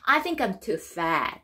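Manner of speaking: slow, careful English model line; slow deliberate teaching voice; slow model reading. Shown as a demonstration. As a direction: read it slowly for learners. Teacher reads dialogue model line.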